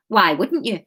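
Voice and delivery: put-on Wigan accent, said simply; light Wigan accent, matter-of-fact. The speaker answers Kate simply, in a Wigan accent. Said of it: "how to do a Wigan accent".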